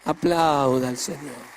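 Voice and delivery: slow loud pulpit call; preaching call. Acted. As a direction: urge the church to praise. Call to the congregation.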